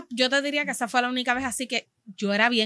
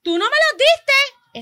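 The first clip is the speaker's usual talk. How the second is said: incredulous; 14 semitones higher, 6 dB louder, much slower than usual. Retold or imitated. Cashier retorting to customer.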